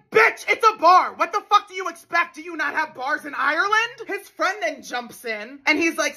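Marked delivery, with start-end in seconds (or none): 0.1-4.0 retold yell. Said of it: "so I started screaming at him".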